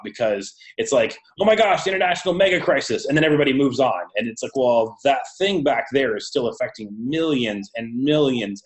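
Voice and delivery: tinny audio through laptop speakers; lo-fi recording over a laptop. Real, not acted. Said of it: "this was recorded through the laptop speakers".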